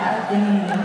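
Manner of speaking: high, loud comic outburst; mock shout. Comedian shouting his own reaction to the stabbing story, mock loud. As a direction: yell the punchline in mock alarm. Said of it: "Sabi ko".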